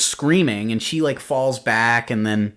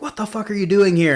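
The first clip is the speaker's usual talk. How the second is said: high-pitched mock outburst; retold angry demand; 9 semitones higher than usual. Reviewer voicing a startled guy at his door, high mock anger. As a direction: snap it out like a startled, armed guy.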